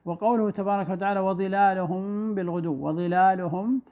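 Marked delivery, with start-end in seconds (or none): 1.2-3.8 وظلالهم in slow recitation, final meem held for two counts; ikhfa shafawi with ghunnah. Shown as a demonstration. Teacher showing the second example, holding a hum on the meem of وظلالهم. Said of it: "مع غنة ظاهرة بمقدار حركتين".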